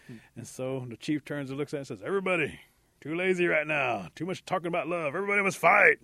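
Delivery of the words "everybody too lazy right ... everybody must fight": high, loud rallying order; rally the crowd, building to a shout; commanding shout. Acted. Chief orders everybody to fight, commanding shout.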